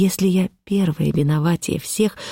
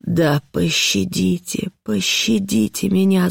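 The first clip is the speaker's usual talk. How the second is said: pleading cry; 3 semitones higher, slower than usual. Acted. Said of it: "закричала я".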